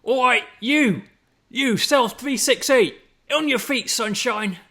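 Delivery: loud, high Cockney guard shout; drawn-out, hammed-up Cockney bellow; bad Cockney accent. Guard calling a prisoner out of the cell, Cockney accent. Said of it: "that was Cockney".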